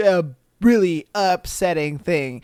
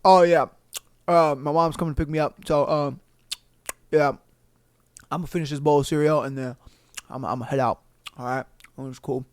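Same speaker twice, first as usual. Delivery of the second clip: put-on nonchalant teen; 6 semitones lower, 4 dB quieter, much faster than usual. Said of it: "talking about".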